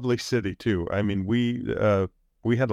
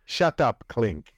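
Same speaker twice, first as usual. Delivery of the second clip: mock Nazi officer; slower than usual. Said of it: "I went Nazi on you there".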